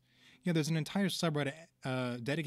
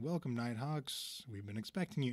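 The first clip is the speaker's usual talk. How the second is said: menacing host voice; 4 dB quieter than usual. Retold or imitated. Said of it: "Korvax going".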